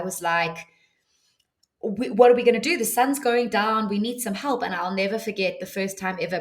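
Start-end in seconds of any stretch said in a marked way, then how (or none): 1.8-4.6 raised, urgent plea for help; half-reliving the fear, louder and higher; retold panic. Telling a listener how she panicked on the empty beach, urgent and raised.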